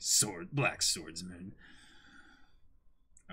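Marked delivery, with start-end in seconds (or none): 0.0-1.5 a hint of an ominous drawl; lightly voiced Griffith. Repeating Griffith's greeting, lower and slow.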